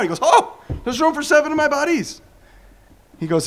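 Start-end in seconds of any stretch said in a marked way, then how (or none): 0.2-2.2 gleeful demon. Retold or imitated. Demon returns to cleaned house.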